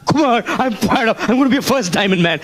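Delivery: a hint of a pumped-up recruit, high; excited newcomer. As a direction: lightly voice an overexcited new guy. Imitating the fired-up downline.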